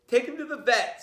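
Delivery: high, firm command; stern father order. A narrator's reading. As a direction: bark the order at the kids.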